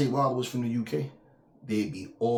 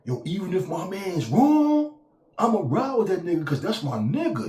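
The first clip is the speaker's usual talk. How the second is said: street-code guy quote; 9 semitones higher, 6 dB louder than usual. Retold or imitated. Mocking the street-code crowd in a high, loud voice. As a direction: ham up the ride-or-die friend. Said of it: "You always hear that".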